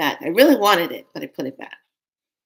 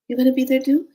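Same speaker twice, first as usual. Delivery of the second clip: put-on little girl asking; 7 semitones higher, 6 dB louder, faster than usual. Child asking the brother.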